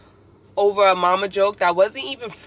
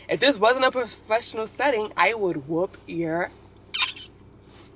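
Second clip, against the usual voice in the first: mock threat, trailing slower at the end; imitating angry classmate; 3 semitones higher than usual. Student threatening the professor, imitated menace. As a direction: put on the offended student's threat. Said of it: "I'm trying to imitate his voice".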